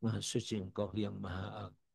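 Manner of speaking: softly voiced inner praise; hushed devotional aside; inner prayer. Shown as a demonstration. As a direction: say it softly, as if inwardly to God. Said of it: "Hatinya mengatakan".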